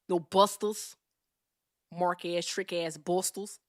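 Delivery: exaggerated Compton slang delivery; Compton accent. Shown as a demonstration. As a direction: do a put-on Compton voice. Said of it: "here's my Compton accent".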